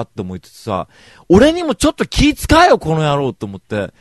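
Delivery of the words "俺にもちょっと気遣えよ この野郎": much higher, louder, slow angry yell; high, loud, slowed mock yell at brother; inner outburst. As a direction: bellow your pent-up grievance.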